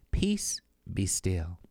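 slow, hushed calming whisper; a slow whispered reassurance. A narrator's reading. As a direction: breathe it out gently to soothe her. Jesus calms the terrified narrator.

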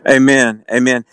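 a strong, ringing affirmation, falling at the end; loud amen. Real, not acted. Co-host answering his partner with a hearty loud amen. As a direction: call out your agreement like a congregation.

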